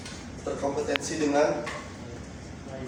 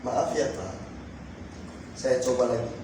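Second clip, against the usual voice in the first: polite apology; 5 semitones lower, 7 dB quieter than usual. Shown as a demonstration. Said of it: "Jawabnya seperti ini".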